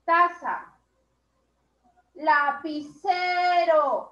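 lapicero drawn out, very slow and sung; slow sing-song model. Shown as a demonstration. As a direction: chant it slowly for the class. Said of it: "A ver, repite". (lapicero cantado y muy lento)

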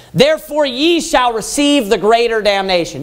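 preached declaration. Shown as a demonstration. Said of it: "put an exclamation point there".

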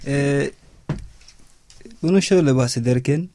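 usual speaking voice

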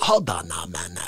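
deep low hold on; low growl reply. Acted.

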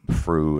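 "fru" with an F for the TH; TH fronting. Shown as a demonstration. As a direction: through said as "fru", F at the start. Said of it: "what we call T H fronting".

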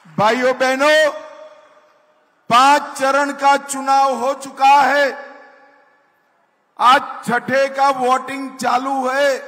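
loud, rousing speech to a crowd; rally the crowd from the stage; booming political rally speech. Acted. Addresses crowd at election rally.

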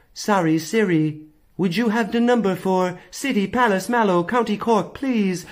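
slow, overly careful polite accent; careful put-on accent for Siri. Shown as a demonstration. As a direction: spell it out slowly so Siri gets it. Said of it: "talk to her how she talks to you".

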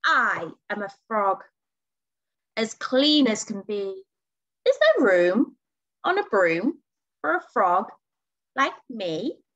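storybook frog with swooping intonation; lightly voiced frog. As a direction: ask politely as a little storybook frog, pitch dipping and rising.

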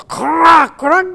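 high, loud mock creak of old timbers; ship creaking imitation. Imitating the ship's planks creaking in the storm. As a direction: crack it out like splintering planks. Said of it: "έκανε κάτι κρυξίματα".

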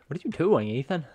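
high-pitched, rising in loudness; exasperated scolding. Real, not acted. Watcher to Ethan wandering where nobody goes, high exasperated scolding. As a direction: scold him in squeaky disbelief.

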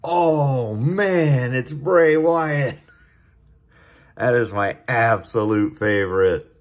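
a genuine gasp of delight at the big pull; the best card of the night has just turned up; excited. Real, not acted. Pulls his favorite card.

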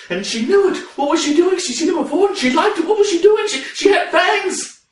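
high-pitched, frantic outpouring; flustered panic. Acted. Storyteller overwhelmed by the fanged woman, high flustered panic. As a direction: spiral upward in overwhelmed disbelief.

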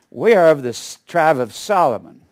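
mock brag with a firm push; bragging neighbor. Neighbor bragging to him about her tribe, boastful. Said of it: "she was trying to brag to me".

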